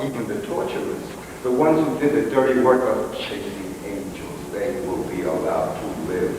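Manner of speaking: measured poetic recital with long pauses; solemn recitation. Acted. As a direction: recite it like a visionary poem. Recites a visionary monologue.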